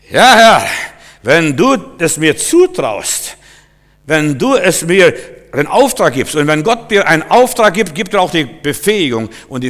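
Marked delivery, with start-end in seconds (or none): 0.1-6.3 willing obedience. Acted. Models willing answer to God.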